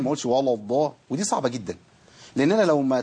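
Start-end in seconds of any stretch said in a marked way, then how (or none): 0.3-0.9 ولا said with a dark, emphatic L and backed A, "wallaw"; heavy lam. Shown as a demonstration. Teacher warns against it, over-heavy lam in ولا before الضا. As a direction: thicken the ل of ولا to match the ض in الضا. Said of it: "وما تفخمش اللام".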